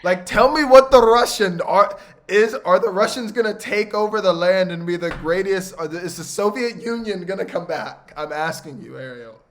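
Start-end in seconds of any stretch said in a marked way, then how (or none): 0.0-7.7 louder, higher teasing challenge; loud playful. Real, not acted. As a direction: challenge her loudly.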